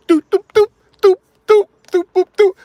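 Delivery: high, loud imitated synth hits; beatboxing the hook; vocal beat. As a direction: mimic the track's beat with your voice.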